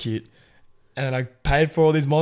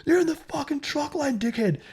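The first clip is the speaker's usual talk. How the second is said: high, strained mock truckie yell; retold yelling. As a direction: imitate a furious truck driver without full volume. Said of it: "like, yelling at him".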